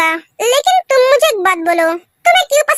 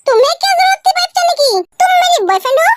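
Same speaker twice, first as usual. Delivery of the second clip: angry scolding; 5 semitones higher than usual. Acted. Girlfriend keeps scolding boyfriend.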